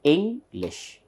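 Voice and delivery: ENGLISH as ING, short pause, lish; two distinct beats on "English"; syllable by syllable. Shown as a demonstration. Teacher says it in two times, syllable by syllable. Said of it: "Two times we pronounce".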